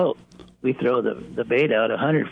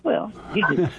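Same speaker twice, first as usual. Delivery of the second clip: fading in and out; 6 semitones higher than usual. Real, not acted. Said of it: "your voice is fading in and out".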